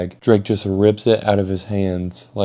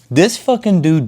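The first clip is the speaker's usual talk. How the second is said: high, loud burst of outrage; loud, pitched-up indignation; indignant outburst; 9 semitones higher, 5 dB louder than usual. Retold or imitated. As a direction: explode at a friend's betrayal. Outraged at friend's betrayal.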